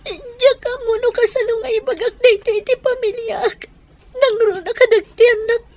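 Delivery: high tearful voice near sobbing; tearful confession. Acted. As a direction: choke back tears while confessing. Confessing affair, crying.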